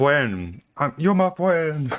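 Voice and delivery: high, earnest mock yelling of every single word. Retelling what a man said, imitating a man yelling. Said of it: "he just yells everything he says".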